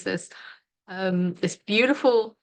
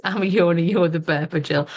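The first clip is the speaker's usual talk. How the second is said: reading out chat; 2 semitones lower, 5 dB louder than usual. Retold or imitated. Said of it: "Helen just said".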